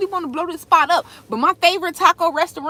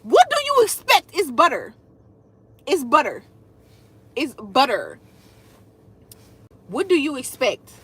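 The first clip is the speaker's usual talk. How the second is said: exasperated retort. Retold or imitated. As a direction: shrug it off as obvious. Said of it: "but I'm like".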